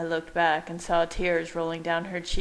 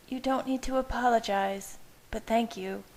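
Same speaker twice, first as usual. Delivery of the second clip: high, quiet woman's voice; 5 semitones higher than usual. A narrator's reading. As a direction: accept it quietly. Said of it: "she said quietly".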